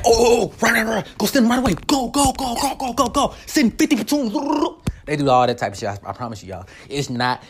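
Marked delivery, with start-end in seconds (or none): 0.0-4.3 imitated frantic scramble orders; urgent, repeated "go" commands in imitation; mock urgent command. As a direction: rattle off hammed-up rescue orders. Acting out officials scrambling a rescue.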